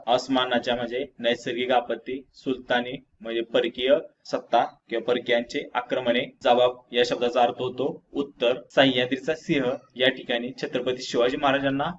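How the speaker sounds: ordinary talk, nothing marked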